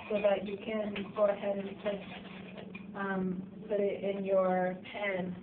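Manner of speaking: losing voice, slightly hoarse. Real, not acted. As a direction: speak with a worn, hoarse voice. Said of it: "Sorry if I'm losing my voice".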